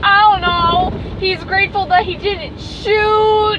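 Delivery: drawn-out helpless blurting, retelling your own confusion; retold struggling. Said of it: "But I was struggling".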